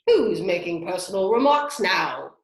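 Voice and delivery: loud gloating retort; the Hatter loudly claims victory over Alice; triumphant. A narrator's reading. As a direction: crow over the point scored. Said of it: "the Hatter said triumphantly".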